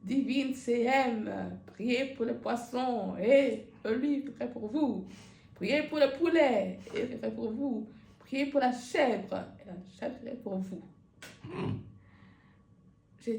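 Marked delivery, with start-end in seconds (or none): 0.0-10.8 lent, solennel, un peu plus fort; sermon du catéchiste. Retold or imitated. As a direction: imite un prêche pompeux. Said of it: "il nous a fait encore le même cinéma". (imitation légère du sermon d'Antoine)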